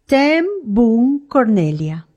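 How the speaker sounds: slow, spaced-out name read from a document; reading aloud. A narrator's reading. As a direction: read the name out deliberately, word by word. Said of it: "leyó en voz alta".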